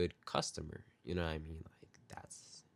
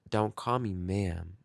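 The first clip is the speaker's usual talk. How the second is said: offended woman; slower than usual. Retold or imitated. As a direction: drag it, sultry and slow. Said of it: "she goes".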